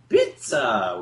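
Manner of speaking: "Pizza" stamped out emphatically, pitch jumping up; emphatic pizza. Shown as a demonstration. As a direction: punch the word "Pizza" with a rising voice. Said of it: "My voice went up, ... did it emphatically".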